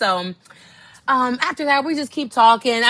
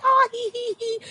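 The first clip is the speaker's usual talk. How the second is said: awkward giggle; 14 semitones higher than usual. Retold or imitated. Awkward laugh.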